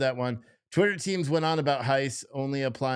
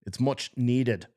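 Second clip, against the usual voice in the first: put-on dubious stab at an English accent; attempted English accent; slower than usual. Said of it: "as they say with an English accent".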